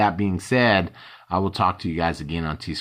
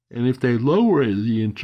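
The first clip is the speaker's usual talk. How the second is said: raised, pitched-up speech stretched by a yawn; 6 semitones higher, 5 dB louder than usual. Exhausted speaker discussing interest rates, yawning mid-sentence. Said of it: "I'm yawning a lot because I've been exhausted".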